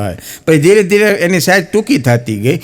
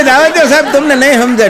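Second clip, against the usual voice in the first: put-on dramatic lovesick girl; 10 semitones higher, faster than usual. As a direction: overplay the girl's sigh of woe, pitched up. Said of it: "એ કે".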